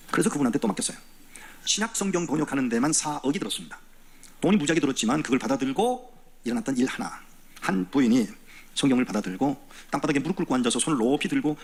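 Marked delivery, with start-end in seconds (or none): none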